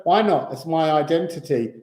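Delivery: loud indignant protest; protesting student. Retold or imitated. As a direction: push back, offended. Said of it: "they would all go".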